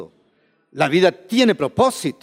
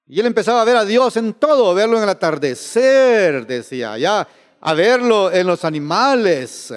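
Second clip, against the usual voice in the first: raised voice with long-held phrase endings; fervent preaching; 3 semitones higher than usual. Real, not acted. Preacher telling how he saw God in creation, fervent. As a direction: preach it in rolling, swelling phrases.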